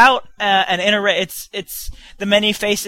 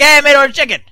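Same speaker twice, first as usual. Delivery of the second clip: mock imitation of friend; 6 semitones higher, 9 dB louder, faster than usual. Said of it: "and you're like".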